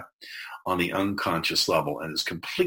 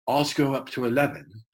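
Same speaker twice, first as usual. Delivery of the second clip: higher, put-on dumb rocker voice; rock and roller; 6 semitones higher than usual. Rocker answering the interviewer about his amps, higher put-on voice. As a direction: play the heavy metal guitarist, deadpan. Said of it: "And the rock and roller says".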